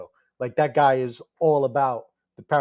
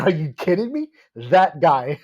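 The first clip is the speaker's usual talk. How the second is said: excited disbelief; 3 semitones higher, 5 dB louder than usual. Retold or imitated. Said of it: "I was like".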